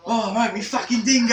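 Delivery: loud, high hammed-up Aussie yell; Australian accent. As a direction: shout it like a stereotype Aussie. Mock Aussie banter.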